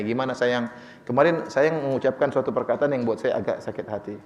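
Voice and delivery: low, gentle coaxing of a spouse; tenang membujuk. Acted. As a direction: broach a hurt calmly and tenderly, acted. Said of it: "tatkala dalam kondisi tenang". (suara tenang membujuk istri)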